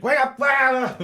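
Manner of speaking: high, loud, squeaky wake-up call; shrill toy robot shouting an alarm. Pretend. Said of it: "It's like".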